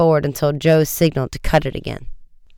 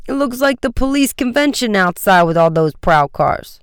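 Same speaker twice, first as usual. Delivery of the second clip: higher, lively exclamation; exclaiming; 7 semitones higher, 3 dB louder than usual. A narrator's reading. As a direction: call it out excitedly.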